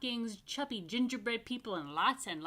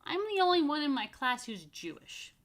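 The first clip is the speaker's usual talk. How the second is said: proud announcement; 6 semitones higher, 6 dB louder than usual. A narrator's reading. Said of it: "Jennifer announced that night at dinner".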